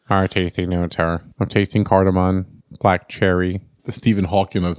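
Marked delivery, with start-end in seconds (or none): 0.1-3.6 pretentious tasting notes. Pretend. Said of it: "should they read them like".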